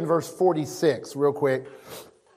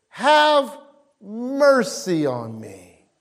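crying out; much slower than usual. Acted. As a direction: draw the plea out slowly. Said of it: "He began to cry out".

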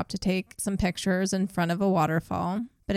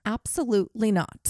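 Becky voice; 3 semitones higher than usual. Retold or imitated. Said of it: "I'm gonna try and be Becky".

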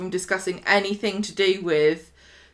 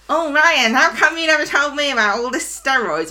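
shocked wife; 5 semitones higher, 4 dB louder than usual. Retold or imitated. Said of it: "Carla was like".

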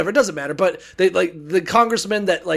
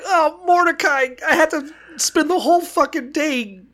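whiny Haman. Retold or imitated. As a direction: moan it like a sulking villain. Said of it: "He's like".

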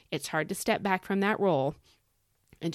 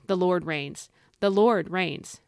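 "The Lord reigns" said slowly and firmly, louder; defiant declaration; 4 dB louder, slower than usual. Shown as a demonstration. Preacher coaching listeners to face their troubles, defiant. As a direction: stare the problem down and proclaim "The Lord reigns". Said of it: "look that puppy right in the eye and say".

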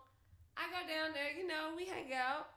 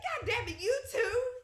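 exasperated; 10 semitones higher, 10 dB louder than usual. Retold or imitated. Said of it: "I was like".

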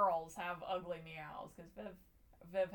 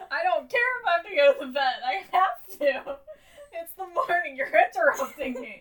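high, loud indignant dog voice; 10 semitones higher, 17 dB louder than usual. Retold or imitated. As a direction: voice the dog, outraged, laughing. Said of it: "He was like".

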